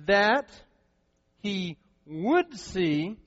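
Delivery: "he would see" drawn out very slowly, "would" stressed. Shown as a demonstration. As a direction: stretch out "would see" to show future tense. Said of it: "Future tense".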